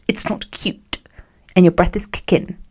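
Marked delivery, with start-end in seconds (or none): 0.1-1.0 breathy whisper. Acted. Warning the viewer, whispered. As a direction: drop to a whisper.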